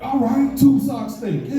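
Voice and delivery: high-pitched, lightly played stoner; stoned naive agreement. High teenager answering his older workmates, naive agreement. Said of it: "I'm high as fuck".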